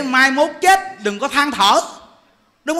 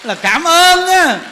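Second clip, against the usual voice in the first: là cảm ơn á said louder and slowly, punching ơn; emphatic thanks; 4 semitones higher, 8 dB louder, much slower than usual. Shown as a demonstration. Monk stressing the lesson to listeners, loud slow emphasis. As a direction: boom it out slowly to the congregation.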